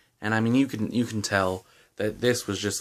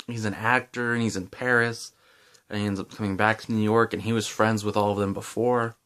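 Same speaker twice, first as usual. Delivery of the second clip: chewing gum while talking; talking around a piece of gum; mouth full. Real, not acted. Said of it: "I have the gum in my mouth".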